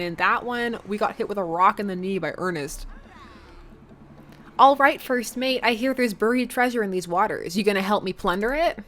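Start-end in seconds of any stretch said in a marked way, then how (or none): 4.6-8.8 a hint of hammy pirate captain; playful pirate captain. Kid playing pirate captain.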